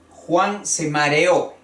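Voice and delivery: Juan se mareó, weight on the final Ó; stress on final O. Shown as a demonstration. Teacher gives an example sentence, mareó stressed on final Ó. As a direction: drive to the last vowel of mareó. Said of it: "estoy acentuando un hiato".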